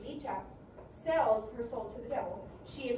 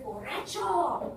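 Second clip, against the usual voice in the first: calling out; much slower than usual. Acted. Unseen voice calls to drunk.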